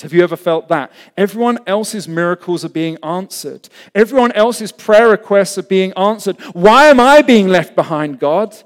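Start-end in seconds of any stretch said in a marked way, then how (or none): 1.2-8.5 building to a loud, high cry; anguished protest. Acted. Believer asks God why they're left behind, building protest. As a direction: demand an answer from God.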